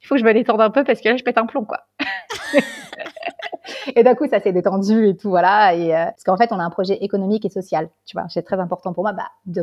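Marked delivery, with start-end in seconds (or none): 2.0-3.9 a squealing laugh that shoots way up; high fit of giggles. Real, not acted. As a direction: burst into helpless high giggles. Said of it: "j'ai eu un fou rire devant tout le monde".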